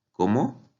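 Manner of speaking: surprised, voice jumping up at the end; a quick rising startled question. Shown as a demonstration. Teacher showing how Spanish raises the voice when surprised, surprised rising question. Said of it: "decimos cuando estamos sorprendidos".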